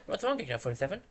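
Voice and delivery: ordinary talk, nothing marked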